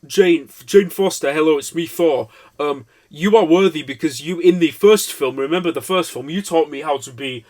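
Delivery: rough impression of an actor as Thor; Chris Hemsworth. Thor greeting Jane Foster, loosely impersonated. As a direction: play a loosely imitated superhero. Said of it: "this is my Chris Hemsworth impression".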